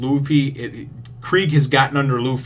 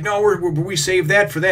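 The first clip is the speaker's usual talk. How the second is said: higher put-on cook voice; 7 semitones higher than usual. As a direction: voice a protesting cook. Cook protesting, far voice.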